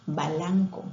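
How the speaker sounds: balanco, with an a slipped between b and l of blanco; child's mispronunciation. Shown as a demonstration. Teacher showing a child's inserted vowel, balanco. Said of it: "el niño quiere decir blanco".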